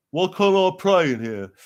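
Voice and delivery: high, loud protesting commoner; indignant churchgoer. Acted. Turned-away mourner challenging the official, high indignant voice.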